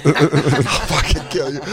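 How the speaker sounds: slow threat through laughter; laughing mock threat. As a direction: draw out the threat, chuckling. Laughing over retold mock threat.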